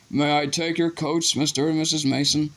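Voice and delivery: Dudley's voice. A narrator's reading. Dudley playing polite host.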